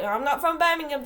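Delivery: mock Black Country accent. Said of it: "They talk like this".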